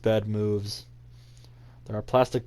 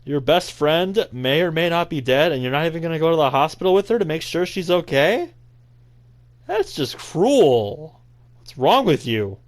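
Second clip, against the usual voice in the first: louder, higher indignant rant; outraged; 6 semitones higher, 5 dB louder than usual. Real, not acted. Player scolds the heartless protagonist, real outrage. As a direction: tear into the character for being cruel. Outraged at game character's choice.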